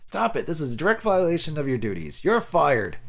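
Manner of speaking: loud, high angry dismissal; doctor firing the caregiver, loud and angry; furious doctor. Acted. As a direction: fire him on the spot in a rage.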